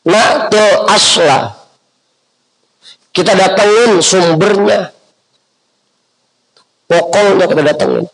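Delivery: nada tinggi berapi-api; seruan dakwah. Acted. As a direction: serukan ajakan dengan nada lebih tinggi. (seruan dakwah bernada tinggi)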